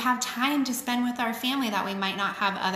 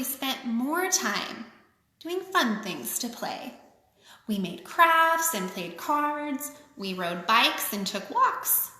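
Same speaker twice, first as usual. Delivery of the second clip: sing-song picture book reading; lilting read-aloud for kids; story reading; slower than usual. A narrator's reading. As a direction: read it like a rhyming children's book. Reads rhyming picture book aloud.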